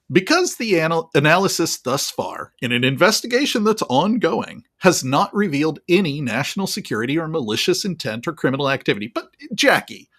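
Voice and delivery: imitating a patronizing official, with emphatic pitch swings; condescending. Spokesman brushing off a reporter's question, mock condescending. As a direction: talk down as if lecturing. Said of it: "condescending tone of voice ever".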